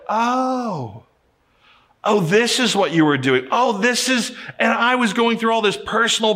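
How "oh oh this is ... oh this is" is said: higher, dawning mock surprise; wife realizes why he ignored her calls, higher surprised voice; surprised realization. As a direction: imitate her delighted discovery at the porch. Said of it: "she was like".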